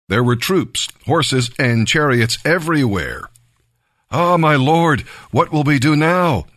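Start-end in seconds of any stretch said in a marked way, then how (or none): 4.1-6.5 a touch of alarm, pitched higher; servant's worried plea, lightly voiced; understated panic to his master; mild frightened cry. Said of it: "he cried out to Elisha".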